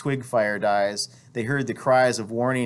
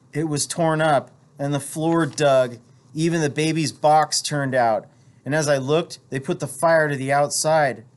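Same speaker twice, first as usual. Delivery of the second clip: higher, urgent frightened voice; frightened woman; 4 semitones higher than usual. Acted. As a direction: Juana pouring out what happened. Juana reports the burned house.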